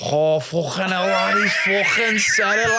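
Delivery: high-pitched, drawn-out shout of disbelief; retold yelling. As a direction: imitate mates yelling out, stretched and high. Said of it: "yelling, screaming".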